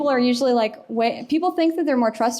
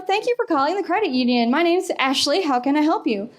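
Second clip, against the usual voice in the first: put-on perky girl; 5 semitones higher than usual. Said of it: "a perky girl answers the phone and is like".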